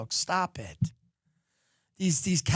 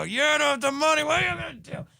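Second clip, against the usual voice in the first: much higher, put-on sneering voice; mock taunt; 10 semitones higher than usual. To a bus driver with no fare, mock sneering taunt. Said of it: "go right in a bus driver's face".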